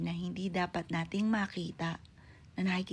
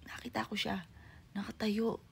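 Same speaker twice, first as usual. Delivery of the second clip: hushed whisper; 3 semitones higher, 6 dB quieter than usual. Real, not acted. Telling a ghost sighting.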